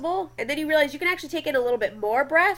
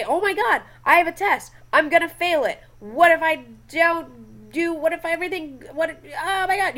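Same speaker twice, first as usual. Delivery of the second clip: high, rushed, panicky fretting; panicked student; 4 semitones higher than usual. Retold or imitated. Student panicking about a test, high anxious babble. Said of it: "you freak out".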